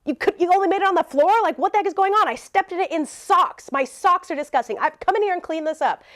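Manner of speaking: indignant telling-off, lightly acted; angry rant. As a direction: imitate an outraged neighbor going off. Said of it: "ranting and getting angry".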